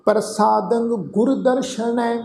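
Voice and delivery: ਪ੍ਰਸਾਦੰ ਗੁਰ ਦਰਸ਼ਨੈ chanted slowly, drawn out; slow recitation. Shown as a demonstration. Teacher chanting the line before breaking it down, slow. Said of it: "ਇੱਥੇ ਤੁਸੀਂ ਦੇਖੋ".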